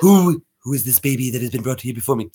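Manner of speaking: put-on cartoon villain voice; Stewie Griffin. Shown as a demonstration. Questioning who brought this baby, cartoon tyrant voice. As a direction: demand it in an imperious character voice. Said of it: "Stewie Griffin".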